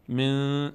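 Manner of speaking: «من» with the nasal n stopped by pinching; nose-pinch test. Shown as a demonstration. Teacher testing the nose-pinch check, «من» with its nasal n choked off. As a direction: say «من» and cut off the nasal hum.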